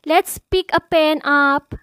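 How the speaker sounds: emphatic, measured opening declamation; formal declamation. Acted. Host urging new poets to write, formal declamation. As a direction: proclaim it to an audience, key words punched.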